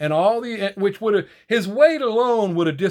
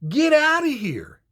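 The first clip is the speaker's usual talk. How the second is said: loud, higher, slow no-nonsense dismissal; firm refusal; 7 semitones higher, 6 dB louder, slower than usual. Retold or imitated. Voicing Trump refusing the woke agenda, loud firm dismissal. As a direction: slam the door, then draw out get out of here. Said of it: "why we want Trump back in there to say".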